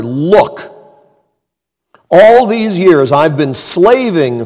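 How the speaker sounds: a touch of bitter grievance; older son complaining to his father, mildly resentful; mild resentful complaint. Retold or imitated.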